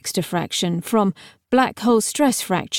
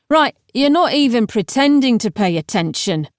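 lightly voiced impatient young necromancer; exasperated necromancer. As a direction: lecture an inattentive listener, mildly exasperated. Necromancer lectures inattentive Gideon.

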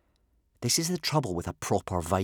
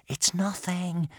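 high, slow, hushed reassurance; soothing hush; 10 semitones higher, slower than usual. A narrator's reading. Boy calming frightened swimmer, soothingly. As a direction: soothe a panicking friend. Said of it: "whispered Hiccup soothingly".

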